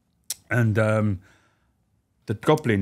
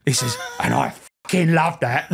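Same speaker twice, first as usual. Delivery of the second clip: slow menacing Charlie. Retold or imitated. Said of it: "He went".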